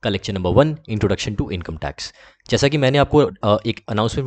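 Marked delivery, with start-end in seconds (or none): 0.9-2.1 slow, deliberate title announcement. Shown as a demonstration. Teacher slowly announcing the lecture title to students.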